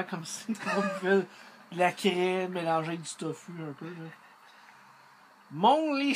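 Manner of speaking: speaking through a chuckle; amused breathy laugh; laughing while talking. Real, not acted. Seen 0: No can at mouth; he smiles, then laughs openly by 1.9s.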